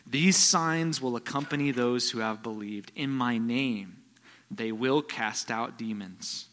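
slow, deliberate scripture read; measured preacher reading the text. Acted. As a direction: read the verse slowly and weightily.

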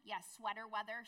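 put-on sweater weather in a Boston accent, r's dropped. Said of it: "that was the Boston accent".

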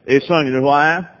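low-pitched, rough attempt at a Southern accent; mock Texan accent. Texas evangelist greeting a stranger in heaven, mock Southern accent. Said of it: "Forgive my poor Southern accent".

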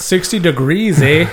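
mock Canadian accent with a tagged-on eh; lightly put-on Canadian accent; playful Canadian accent imitation. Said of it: "That's my best Canadian accent".

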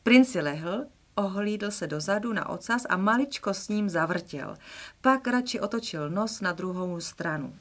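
storybook reading, lively and clear; expressive children's story reading; reading a children's book aloud. Acted. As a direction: read it like a bedtime story.

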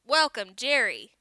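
a hint of the machine greeting, mocked; mimicking computer voice. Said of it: "he mimicked".

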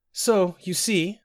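high, very slow tearful plea. A narrator's reading. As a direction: draw it out as if near tears. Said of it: "said Sinetta tearfully".

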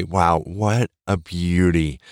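admiring. Shown as a demonstration. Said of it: "Now look at yourself and say".

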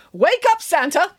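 high-pitched wake-up call. A narrator's reading. Nanny waking Santa on the couch, calling out. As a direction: rouse a sleeper with a high call. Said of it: "called Nanny Piggins".

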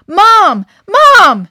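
loud high shout for Mom; yelling. Acted. Boy on the deck yelling for his mom, full shout. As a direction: yell for your mother in alarm. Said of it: "Adam yelled".

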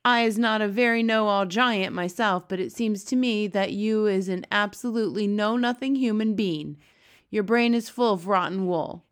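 put-on a kindly giant talking down to a girl. BFG giant voice.

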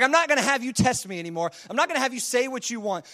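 mildly exasperated God putting his foot down; lightly acted fed-up refusal; God losing patience with Job; frustrated God. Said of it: "God just gets frustrated with Job".

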